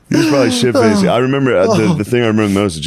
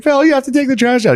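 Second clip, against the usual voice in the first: much higher mock yell at the wife; a dad barking orders about the trash; imitating yelling dad. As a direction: ham up the dad nagging. Voicing dad yelling at mom.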